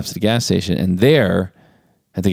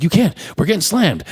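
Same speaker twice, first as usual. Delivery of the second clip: raised, higher-pitched protest; mock protesting boss; 10 semitones higher than usual. Manager blocking his worker from leaving, imitated high protest. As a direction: imitate a flustered manager's objection. Manager refuses to let her go.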